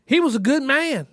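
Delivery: a hint of an old woman consoling her grandson; grandmother's voice.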